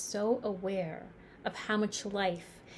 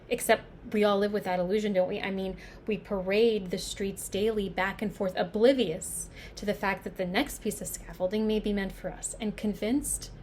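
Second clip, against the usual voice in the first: building intensity, louder and pressing; intense dramatic monologue; 4 dB louder than usual. Acted. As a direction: drive the point home with growing force.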